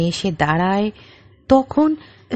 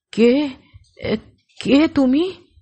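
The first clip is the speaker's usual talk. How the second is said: terrified, frightened, higher pitch; 5 semitones higher than usual. Reading a story where a character, terrified, asks who is there: terrified. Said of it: "আতঙ্কিত হয়ে বললেন".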